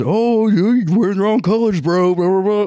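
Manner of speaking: hammed-up jeering frat bro; mocking Alabama fan. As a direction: taunt like a rival fan. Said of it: "Alabama fans jumping in our faces".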